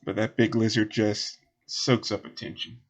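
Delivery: folksy request in a light Southern voice; lightly voiced local. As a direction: enlist their help, lightly in character. Game master voices Southern character.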